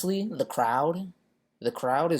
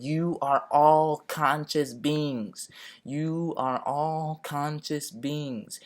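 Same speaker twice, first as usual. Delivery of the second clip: preaching; 2 semitones higher, slower than usual. Retold or imitated. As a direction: call out slowly like a street preacher through cupped hands. Pleading with police, cupped hands.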